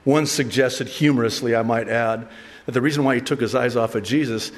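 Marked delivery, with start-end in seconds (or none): none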